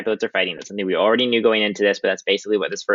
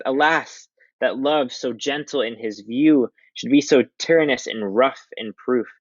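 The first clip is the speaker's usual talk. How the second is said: Benvolio; 3 semitones higher, slower than usual. Acted. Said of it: "Benvolio replies".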